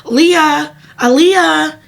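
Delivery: mild mock yell of a search party; retold shouting. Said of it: "Everybody is shouting".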